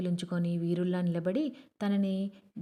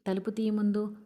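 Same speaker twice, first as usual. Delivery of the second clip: impatient, a bit higher demand; impatient shout; 3 semitones higher than usual. Acted. Student shouting at Sahu to open the door, impatient. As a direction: bark at him to open up, impatiently. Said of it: "అసహనంగా అరిచాడు శరత్ మిశ్రా".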